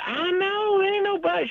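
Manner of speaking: very high-pitched impression of a woman; imitated lady. Lady agrees about the Klan, imitated in high voice. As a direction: put on her voice way up high. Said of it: "she said".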